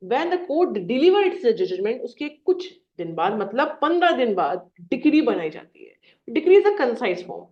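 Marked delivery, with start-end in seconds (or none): 0.1-2.0 very slow, word by word; slow dictation. Shown as a demonstration. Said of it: "dictating the definition". 6.3-7.4 very slow, word by word; slow dictation. Shown as a demonstration. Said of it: "dictating the definition".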